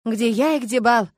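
slow, philosophical rhetorical question; drawn-out philosophical musing. A narrator's reading. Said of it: "философски отозвалась Анна".

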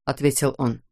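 ordinary delivery, nothing marked

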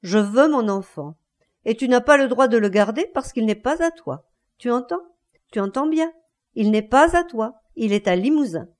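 insistent, taunting challenge; defiant. Acted. Wife face to face with husband, defying him. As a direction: brave him, driving each point home. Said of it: "et le bravant".

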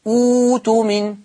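slow recitation, أوت من with hamza turned to long u; starting on damma. Shown as a demonstration. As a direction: stretch "uu-tumin" slowly. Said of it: "لما ابتدي بهمزة الوصل هضمها".

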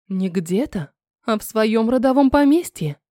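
calm. Acted. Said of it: "ответила я спокойно".

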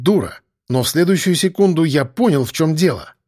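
usual speaking voice

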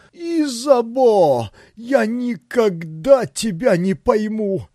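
high, slow, sing-song and lost; bewildered tenor. A narrator's reading. Pavel to his lover, bewildered high tenor. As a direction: croon it helplessly. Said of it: "пропел растерянным тенорком".

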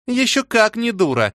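sneering exclamation through a smirk; wry smirk. Acted. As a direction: scoff at the idea. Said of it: "криво усмехнулась Валя".

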